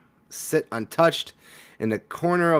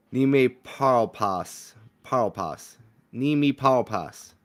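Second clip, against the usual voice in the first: bad French accent. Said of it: "But that doesn't sound like French".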